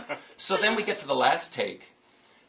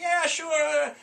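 high, easy-going yes; cheerful agreement; 14 semitones higher than usual. Retold or imitated. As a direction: re-enact an obliging celebrity agreeing happily. Ballplayer cheerfully agreeing to photo.

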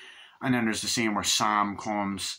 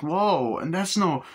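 higher, louder mock "whoa"; taken aback; 7 semitones higher, 4 dB louder, slower than usual. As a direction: imitate a startled objection. Reacting to swearing in retold scene.

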